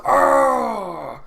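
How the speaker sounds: loud, high falling "ah"; video-game death cry. Retold or imitated. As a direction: imitate a dying game soldier. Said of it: "when a soldier gets killed".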